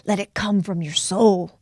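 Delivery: put-on a Doctor Hugo Gibson line in a South African accent; quoting a mentor in his South African accent. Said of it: "you can hear him in his South African accent".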